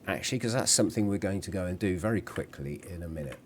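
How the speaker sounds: quick, run-on aside; speaking fast. Real, not acted. Game host hurrying through what comes next, speaking fast. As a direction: rattle it off quickly. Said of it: "If I'm speaking fast".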